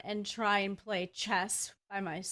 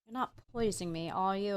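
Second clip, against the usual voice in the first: joking; much faster than usual. Acted. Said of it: "joke with him and go".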